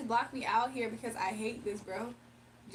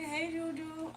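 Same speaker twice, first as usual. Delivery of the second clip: higher, lightly mocking baby voice; high-pitched baby voice; 5 semitones higher, 4 dB quieter, slower than usual. Streamer teases Nicole about her voice, imitated baby voice. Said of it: "You sound like a baby".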